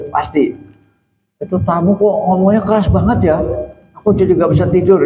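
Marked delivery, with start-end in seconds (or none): 1.3-5.0 higher, mildly whiny mock complaint; complaining relative. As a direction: grumble lightly as the kept-awake relative. Family member kept awake complains.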